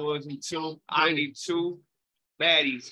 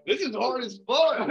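laughing while talking; 10 semitones higher than usual. Real, not acted. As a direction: say it through real laughter. Laughing during freestyle.

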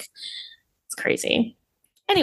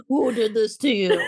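laughing; 2 semitones higher than usual. Retold or imitated. Friend repeats line laughing.

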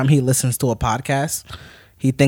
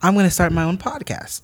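higher-voiced retelling of her eager reply; customer's wife; 7 semitones higher than usual. Wife telling the Target cashier about her podcast plan, imitated higher voice. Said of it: "The wife replies".

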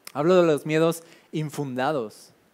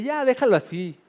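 mocking resigned voice; 8 semitones higher than usual. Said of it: "aunque ya todos digan así de".

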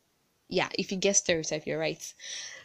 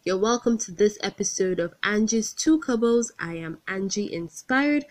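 lively welcome; 5 dB louder than usual. Real, not acted. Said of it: "podcast host greeting listeners".

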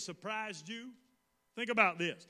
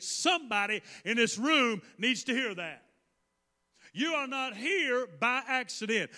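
emphatic, declarative preacher cadence; forceful preaching; 4 dB louder than usual. Real, not acted. Preacher telling listeners they are no accident, forceful preaching. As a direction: drive each phrase home with heavy stresses.

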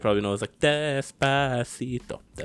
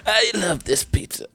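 Godfather impression; 8 semitones higher, 4 dB louder than usual. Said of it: "trying to do The Godfather".

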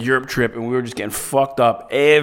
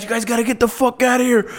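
mock screaming; 8 semitones higher, faster than usual. Hotel owner screaming at the guests, imitated. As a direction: imitate a screamer in a raised, thinned-down yell. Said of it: "the guy's screaming at us".

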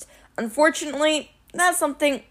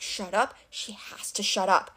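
muttered; 8 dB quieter than usual. A narrator's reading. Hidden Annabeth wishes Clarice quiet, muttering. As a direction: mutter it softly under the breath. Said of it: "Annabeth muttered".

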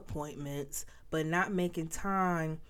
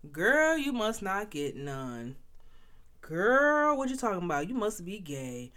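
sassy doubter; 5 semitones higher, 3 dB louder than usual. Retold or imitated. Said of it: "somebody out here like".

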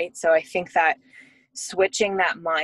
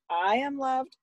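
much higher sing-song repeat; retold parent playing along, pitched up; obedient echo; 8 semitones higher than usual. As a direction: echo the child's affirmation dutifully. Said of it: "You need to repeat it".

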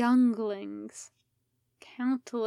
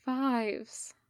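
gentler; 4 dB quieter than usual. Acted. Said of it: "Obi-Wan's voice was gentler".

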